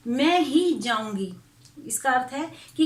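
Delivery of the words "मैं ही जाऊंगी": slow, with weight on "मैं ही"; stress on मैं ही. Shown as a demonstration. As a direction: lean firmly on "मैं ही", taking your time. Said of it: "बलाघात उत्पन्न हो गया है".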